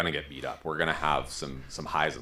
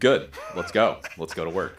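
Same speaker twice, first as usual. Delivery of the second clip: upbeat; 5 dB louder than usual. Retold or imitated. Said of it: "as you've trained me, my answer".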